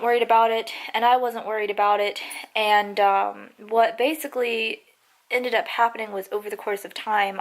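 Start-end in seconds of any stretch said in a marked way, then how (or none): 3.6-7.4 talking with a sore mouth, barely moving it. Real, not acted. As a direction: keep the jaw still after a tooth pull. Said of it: "sorry if I'm talking weird".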